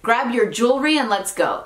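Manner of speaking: "jewelry" squeezed into two syllables, JOOL-ree; casual quick pronunciation. Shown as a demonstration. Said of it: "te lo dicen más rápido".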